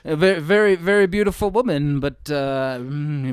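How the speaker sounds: hammed-up president insulting a woman; Trump impression.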